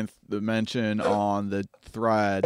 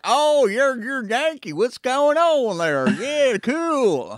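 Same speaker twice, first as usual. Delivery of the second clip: mock British reply; 14 semitones higher, 6 dB louder, much slower than usual. Imagined Brit calls him Yankee.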